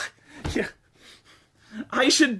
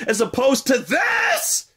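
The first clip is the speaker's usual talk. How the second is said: disgusted yell; 2 semitones higher, slower than usual. Real, not acted. Ranting at game.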